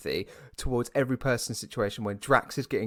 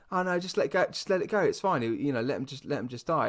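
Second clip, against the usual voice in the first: lightly voiced dismissive Gamora, pitched higher; mock careless Gamora; 3 semitones higher than usual. Mimicking Gamora shrugging off the dying Rocket, mock careless. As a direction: toss it off like nobody matters.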